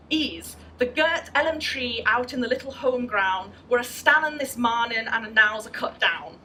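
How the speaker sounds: attempted West Country dialect reading; West Country accent. Shown as a demonstration. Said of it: "I can't do a West Country accent at all".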